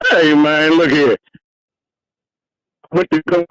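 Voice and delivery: muffled, underwater phone line. Real, not acted. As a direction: caller sounding underwater on a bad phone. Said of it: "you sound like you're underwater".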